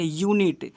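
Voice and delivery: यूनिट opening on a clear "yoo"; u read as yu. Shown as a demonstration. Teacher shows pupils how it is read, yu sound. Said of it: "इसे पढ़ेंगे".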